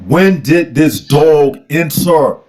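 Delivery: slow, low questioning voice; a hint of a puzzled prophet; slow voicing of Muhammad. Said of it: "and said".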